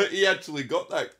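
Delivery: fast, high words through laughter; laughing. Real, not acted. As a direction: rattle it off while laughing. Still laughing at joke.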